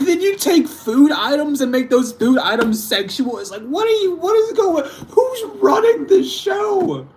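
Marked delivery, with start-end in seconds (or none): 3.6-7.1 high, slow, cracking with laughter; laughing disbelief. Real, not acted. Ranting about language while laughing in high disbelief. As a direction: ask it while laughing helplessly.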